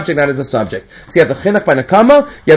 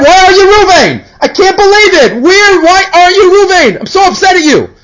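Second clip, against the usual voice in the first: mock frantic screaming; 11 semitones higher than usual. Man searching for Ruvain yells at the wrong group, mock frantic wail. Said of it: "he starts screaming at them".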